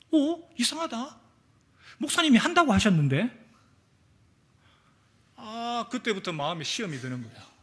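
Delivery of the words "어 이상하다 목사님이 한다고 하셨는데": puzzled surprise. Retold or imitated. Deacon puzzled the call never came.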